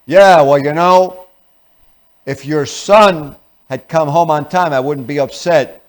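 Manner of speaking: loud, blaming complaint; antagonistic wife. Acted. Wife blaming her husband about the kids, antagonistic. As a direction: point the finger at the kids. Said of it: "Now she's antagonism".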